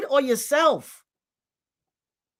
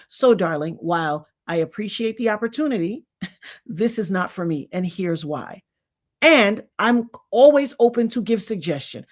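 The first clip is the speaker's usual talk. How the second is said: gracious decline; 3 semitones lower than usual. Shown as a demonstration. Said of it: "comfortable coming and saying".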